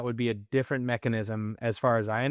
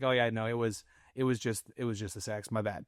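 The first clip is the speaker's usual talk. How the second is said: sheepish admission; 2 semitones lower, 5 dB quieter than usual. Retold or imitated. Husband conceding to wife afterwards it was just the sex, sheepish. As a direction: back down quietly, owning up.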